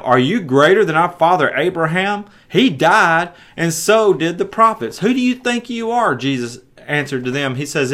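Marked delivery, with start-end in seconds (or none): 0.0-6.1 indignant crowd. Acted. Crowd challenges Jesus.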